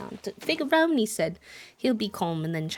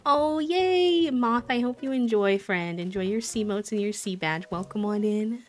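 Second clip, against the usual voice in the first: put-on British accent; 4 dB louder than usual. Streamer thanking a gifted sub in mock British accent. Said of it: "Not the British accent".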